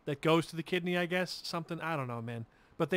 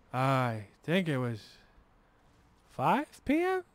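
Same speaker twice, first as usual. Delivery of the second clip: delirious dad; slower than usual. Retold or imitated. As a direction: imitate a dazed father guessing, pitch shooting up. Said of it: "And he goes".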